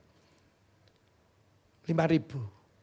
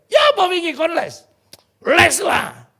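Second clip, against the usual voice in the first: friends asking; 11 semitones higher, 9 dB louder than usual. Retold or imitated. Friends voiced answering loudly.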